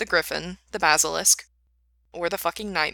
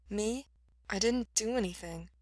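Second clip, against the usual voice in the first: soft, higher, muffled protest; 3 semitones higher, 6 dB quieter than usual. A narrator's reading. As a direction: protest quietly into someone's shoulder. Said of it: "muffled against Mikey's shoulder".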